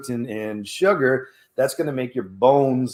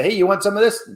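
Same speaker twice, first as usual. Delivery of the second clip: bright, high coaxing offer, louder; tempting offer; 7 semitones higher, 5 dB louder than usual. Retold or imitated. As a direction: dangle the treat in a high voice. Offering food at a party.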